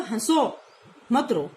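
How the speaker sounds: हंसो rising, pause, मत रो; हंसो, break, मत रो; pause after हंसो. Shown as a demonstration. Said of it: "मतलब".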